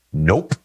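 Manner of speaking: a flat, firm "Nope." with a small lift at the end; emphatic nope. Retold or imitated. The answer to the preacher's question, firmly: "Nope.". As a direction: shut it down with one word, "Nope.". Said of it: "the answer comes back emphatically".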